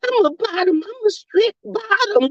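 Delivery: prissy put-on voice of a big football dude; mimicking a linebacker. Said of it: "and they be like".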